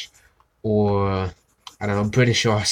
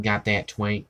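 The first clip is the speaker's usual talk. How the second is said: attempted Southern accent. Shown as a demonstration. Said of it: "I just tried doing a Southern accent".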